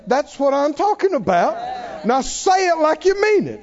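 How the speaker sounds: high, shouted, delighted Father; God cheering. Retold or imitated. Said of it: "He's gonna say".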